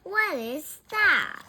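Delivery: loud, high startled question; startled cry. A narrator's reading. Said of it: "cries Frank".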